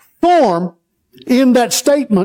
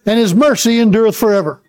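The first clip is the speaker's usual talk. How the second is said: call and response. Shown as a demonstration. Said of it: "Say that".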